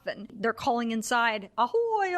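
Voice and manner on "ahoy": high, drawn-out Ahoy call. Retold or imitated. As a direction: call into the empty sub. Calling inside the sub.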